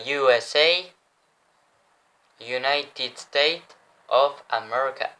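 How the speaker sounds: drawn-out English-language accent, word by word; careful, slow English accent from a French speaker; showy English accent. Shown as a demonstration. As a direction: show off the English accent slowly. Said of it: "Comment je me la pète avec mon accent".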